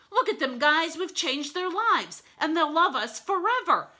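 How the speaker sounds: high, loud gushing pride; elated wolf. A narrator's reading. Mister Wolf watches freed dogs, loud elation. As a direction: gush it loudly and happily.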